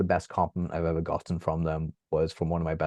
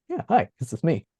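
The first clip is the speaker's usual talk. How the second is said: mock bashful hello; 10 semitones higher, 3 dB louder than usual. Friends spotting him on social media.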